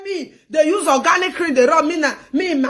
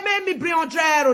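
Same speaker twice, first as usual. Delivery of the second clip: fast, raised voice, quoting a greedy demand; mock demand; 3 dB quieter, faster than usual. Retelling a friend's call, she mocks the demand in a fast raised voice. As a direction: bark the demand out quickly.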